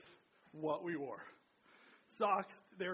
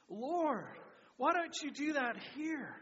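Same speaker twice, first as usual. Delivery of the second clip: louder call-and-response; congregation repeating aloud; 7 semitones higher, 4 dB louder, slower than usual. Real, not acted. Pastor leads the church in a louder echo. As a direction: say it back together, louder. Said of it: "Can you say that with me?".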